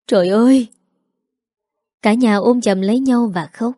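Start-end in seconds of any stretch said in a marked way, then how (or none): 0.1-0.7 stunned cry at an unexpected reunion; astonished exclamation. Acted. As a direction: gasp out in amazement, modestly lifted. (thốt lên kinh ngạc)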